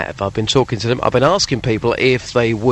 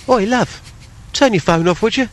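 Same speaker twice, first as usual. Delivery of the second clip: higher, teasing cockney impression; mock cockney; 8 semitones higher than usual. Co-host teasing presenter's anger, mock cockney. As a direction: put on a bit of angry cockney. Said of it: "you get a bit cockney".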